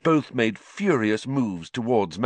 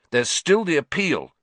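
higher, louder insistence; a lightly fierce schoolboy; 8 semitones higher, 3 dB louder than usual. Acted. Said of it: "said Ron fiercely".

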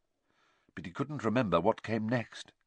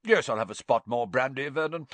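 hearty, tipsy aunt voice; booming, self-satisfied matron; Aunt Marge voice; 3 semitones higher than usual. Acted.

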